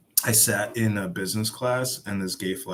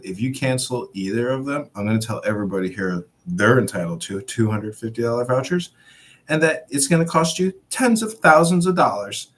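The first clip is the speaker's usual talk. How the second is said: rising to a loud, higher threat; angry threat; 4 semitones higher, 6 dB louder than usual. Retold or imitated. To the gate employee cancelling vouchers, a rising angry threat. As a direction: build up to a furious warning.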